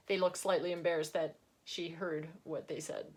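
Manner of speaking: ordinary delivery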